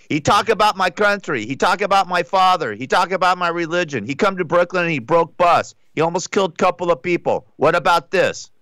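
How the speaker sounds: a light imitation of a Russian fighter's accent. Fighter retold to a friend, in a mock Russian accent. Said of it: "that's my Russian accent".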